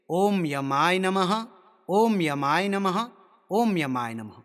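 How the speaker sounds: slow, drawn-out name mantra; mantra recitation. Shown as a demonstration. Teacher showing learners how to repeat Yama's name mantra, slow recitation. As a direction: intone it with long held syllables. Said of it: "इन नामों को तीन तीन बार उच्चारण करना है".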